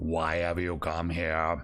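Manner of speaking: very strange, unnatural creature voice. Voicing the thing that speaks as smoke rises behind it, very strange voice. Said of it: "as it speaks in this very strange voice".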